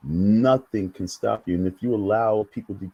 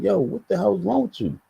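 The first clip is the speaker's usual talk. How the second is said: high, exasperated yo what the hell; exasperated disbelief; 10 semitones higher than usual. Retold or imitated. Recalling his first YouTube days, baffled and high-pitched. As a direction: pitch jumps high in bewildered outrage. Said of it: "I'm like".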